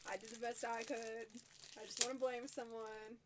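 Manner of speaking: slow, deliberate delivery of an apology; slow, measured half-sincerity. Real, not acted. Wife tells host she's just messing, slowly and unconvincingly. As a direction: say it slowly, not quite meaning it. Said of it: "You can tell she really means that".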